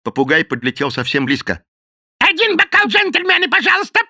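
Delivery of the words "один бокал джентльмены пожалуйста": very high, squawking bird voice; shrill parrot cry. A narrator's reading. Parrot begging drinks from the gentlemen, shrill squawk. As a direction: screech it like a bar parrot. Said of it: "пронзительно крикнул он".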